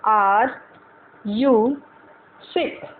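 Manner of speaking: each word spaced out with pauses; slow drilled English, one word at a time. Shown as a demonstration. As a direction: say it slowly for learners to repeat. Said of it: "मैं इतना धीरे धीरे बोल रही हूँ".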